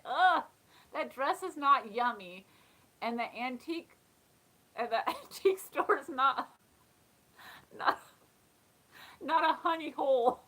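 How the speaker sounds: mock disgust. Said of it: "I can't stand hearing those two sayings".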